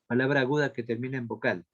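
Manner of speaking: fast, run-together repeat of a dictation; quick repeat. Real, not acted. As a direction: repeat it briskly in one go. Repite el dictado más rápido. (repetición rápida del dictado)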